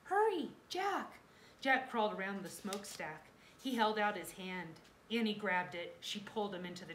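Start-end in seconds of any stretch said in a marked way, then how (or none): 0.0-1.2 high, loud, stretched-out urging; urgent call. A narrator's reading. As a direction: call him to come quickly. Annie urges Jack to escape.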